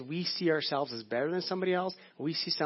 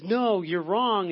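higher, drawn-out mock insistence; insistent teacher; 4 semitones higher, 5 dB louder, much slower than usual. Preacher voicing teacher arguing with pupil, insistent. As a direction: dig in slowly on the contradiction.

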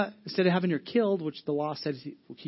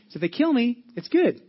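high and loud, triumphant; loud, high, unafraid; fearless exclamation; 6 semitones higher, 6 dB louder than usual. Retold or imitated. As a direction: throw it out with bold delight. Paul facing possible execution, defiant.

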